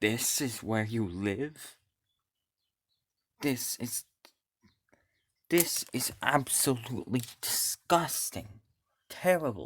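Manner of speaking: loud, furious, disgusted angry tirade. Narrator voicing Nyx on seeing someone's home, loud and angry. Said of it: "in a loud and angry voice".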